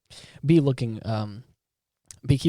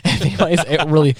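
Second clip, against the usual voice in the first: choked-up voice; talking while choked up; 6 semitones higher, 8 dB louder, faster than usual. Real, not acted. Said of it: "I'm getting all choked up over here".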